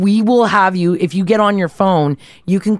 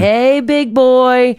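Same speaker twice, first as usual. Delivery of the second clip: calling out to bear; 4 semitones higher, much slower than usual. Shown as a demonstration. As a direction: call it slowly to a bear. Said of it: "saying things like".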